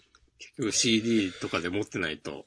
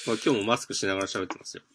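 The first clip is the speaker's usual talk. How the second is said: through a face mask; much faster than usual. Real, not acted.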